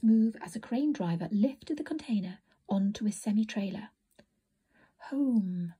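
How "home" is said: soft smiling. A narrator's reading.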